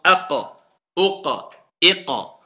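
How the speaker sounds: aqa, oqa, iqa with the q stopped at the back; qaf drill. Shown as a demonstration. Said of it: "on peut s'entraîner".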